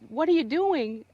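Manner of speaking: distressed cry. Retold or imitated. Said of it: "And I said".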